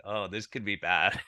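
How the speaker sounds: slow, hushed mock dread; a hint of nervous doubt, held back; mild mock worry. Doctor at the filmed dinner, quietly worried about the pizza. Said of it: "and I'm like".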